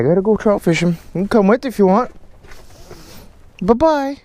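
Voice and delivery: high squeaky voice for the dog; squeaky praising a dog. Real, not acted. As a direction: coo up high to the puppy.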